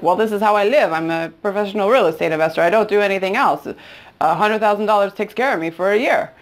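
imitated Lebanese seller's accent; a touch of Lebanese-accented English; thick Lebanese accent. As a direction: retell it in a light Lebanese accent. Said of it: "he said in his very thick accent".

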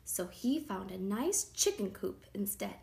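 ordinary delivery, nothing marked

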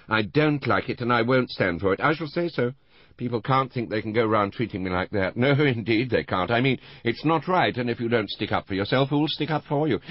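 put-on high, loud, tipsy old lady bristling; tipsy indignant old woman. Tipsy Mrs Rival grumbling.

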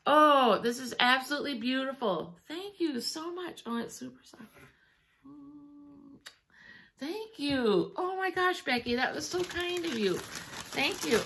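moved, tearful thanks; tearing up. Real, not acted. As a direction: thank a friend through welling tears. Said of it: "I'm still tearing up".

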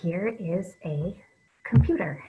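slow, deliberate example sentence; slow model sentence. Shown as a demonstration. Teacher modelling a sentence for young readers, slow and clear. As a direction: say it slowly so kids can copy. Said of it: "I'm gonna do another sentence".

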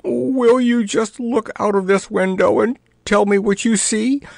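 high, trembling plea from a frightened king; quavering king. Acted. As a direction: let the words quaver up high in fear. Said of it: "quavered the king".

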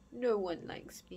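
soft, forlorn confession; softly. Acted. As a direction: say it softly, near tears. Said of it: "he said softly".

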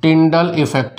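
drawn-out words with long pauses; word by word, very slowly; slow dictation. Real, not acted. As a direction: dictate it slowly for note-takers. Dictating notes for students to write.

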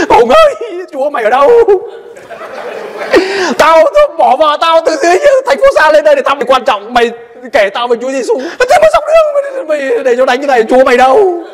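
high, laughing mock whine of a beaten friend; high, laughing mock grievance from the beaten friend; mocking complaint. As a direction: ham up the friend's grumbling through laughter.

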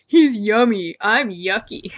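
loud, gleeful mock of a cutesy line; loud mock-childish announcement; mocking quote. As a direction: ridicule it loudly, like a silly child. Mocking the disgusting sentence.

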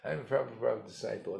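the same brag "I'm a Prabhupada disciple" rattled off fast. Retold or imitated. Guru mocking a boaster, repeating the brag fast. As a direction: toss off "I'm a Prabhupada disciple" again, quick and smug. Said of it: "hey, isn't that impressive?".

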